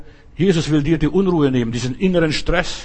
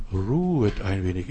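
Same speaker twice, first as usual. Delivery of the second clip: hushed Jesus; 7 semitones lower, 7 dB quieter than usual. Acted. Jesus tells them to rest.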